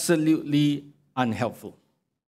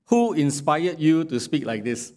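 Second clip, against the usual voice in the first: mocking question with "who" stressed; sarcastic question; 2 semitones higher than usual. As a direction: sneer it as a sarcastic jab. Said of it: "So this drips with sarcasm".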